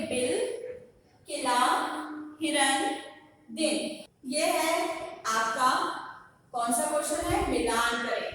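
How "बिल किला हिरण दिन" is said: measured word-by-word teacher drill; repeat-after-me pronunciation. Shown as a demonstration. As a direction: separate words with pauses to echo. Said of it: "आप मेरे पीछे बोलेंगे".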